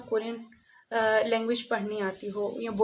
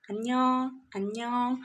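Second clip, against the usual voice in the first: quick casual form. Shown as a demonstration. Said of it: "इसको अगर हम जल्दी बोलते हैं".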